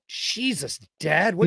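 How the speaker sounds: lightly voiced exasperated dog; a hint of a whining dog; complaining dogs. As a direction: speak up as the fed-up pet. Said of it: "My dogs go out there and they're like".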